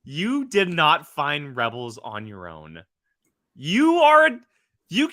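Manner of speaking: indignant, emphatic playful accusation; mock outrage. Real, not acted. Host calls out friend for lying about finding Rebels, mock outrage. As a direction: hammer out the accusation with a laugh underneath.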